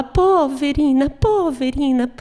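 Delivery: poverina drawn out slowly and plaintively; slow, mock-pitiful poverina. Shown as a demonstration. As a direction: stretch each poverina like a sigh of pity. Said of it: "Ela fala".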